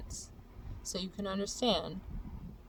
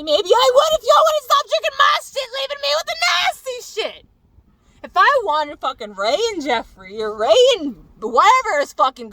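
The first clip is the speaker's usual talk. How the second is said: much higher, much louder furious yell; furious shouting; 8 semitones higher, 13 dB louder than usual. Real, not acted. Yelling at friends who drink her tequila, real furious shouting. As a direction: scream it out, fed up for real. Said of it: "it makes me really mad".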